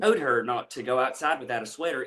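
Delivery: demonstrated Eastern Kentucky accent, L's dropped. Shown as a demonstration. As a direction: put on rural Eastern Kentucky speech. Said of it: "really gives away the Eastern Kentucky".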